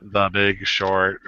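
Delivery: slow robotic synthesizer voice; evenly spaced robot words; Stephen Hawking voice. Shown as a demonstration. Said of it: "You gotta do it in the Stephen Hawking voice".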